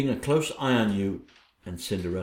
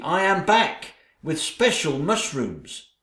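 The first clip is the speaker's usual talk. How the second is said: eager; 4 semitones higher, slower than usual. Acted. Servant returns eager with mushrooms.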